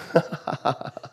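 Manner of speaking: short breath of laughter; amused laugh. Real, not acted. Preacher laughing after mock warning, amused. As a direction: chuckle at your own parody.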